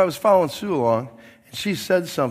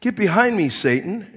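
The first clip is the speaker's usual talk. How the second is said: higher, louder stern command; strong rebuke; 5 semitones higher, 5 dB louder than usual. Retold or imitated. Jesus sharply rebuking Peter, higher and louder. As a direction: hit it hard like a sharp rebuke. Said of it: "really strong back to Peter".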